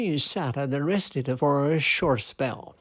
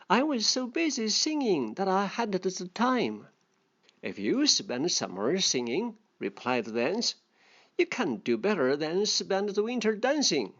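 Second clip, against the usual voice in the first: a lightly voiced storybook reading; story reading; 4 dB quieter than usual. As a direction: read the fable aloud to the class. Reading fable aloud to learners.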